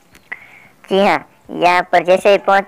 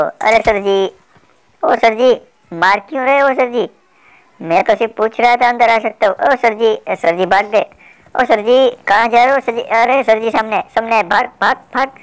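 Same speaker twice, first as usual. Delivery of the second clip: higher, teasing calls of sir ji after a fleeing foe; mock pleading call; 3 semitones higher than usual. Gamer teasing the enemy bot as it runs away, mock pleading call. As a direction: plead with him playfully, pitched up.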